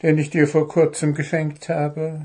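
high, fast pleased goblin; quick high delighted goblin. Acted. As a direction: rush it out gladly. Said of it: "freute sich der Kobold".

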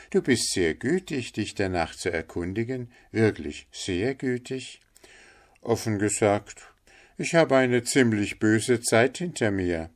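a hint of an eager innocent; humble little Hans, grateful.

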